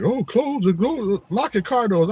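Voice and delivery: high, slow mock-fearful warning; mocking worried people. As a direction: squeak it like a nervous neighbour. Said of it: "People be like".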